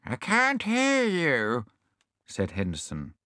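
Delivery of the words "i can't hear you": high, puzzled repeated what; deaf old hedgehog. Acted. Deaf hedgehog straining to catch the question. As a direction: strain to hear, confused.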